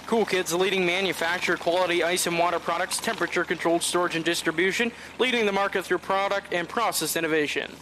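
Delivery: brisk, fast ad read of the sponsor line. Acted. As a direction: rattle off the sponsor copy like a promo. Thanks presenting sponsor.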